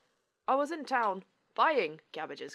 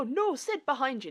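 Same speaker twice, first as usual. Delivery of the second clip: higher-pitched acted warning; urgent warning; 3 semitones higher than usual. Storyteller warning Sid of the dwarf behind him, urgent warning. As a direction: call out to warn him.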